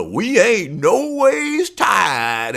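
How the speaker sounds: slow, put-on Black church preaching accent; drawn-out fake preacher accent; mock church Black accent. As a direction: imitate a politician faking a Black church accent. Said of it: "her throwing on the".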